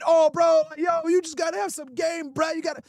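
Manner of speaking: mock old guy. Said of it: "I hate these old niggas coming in".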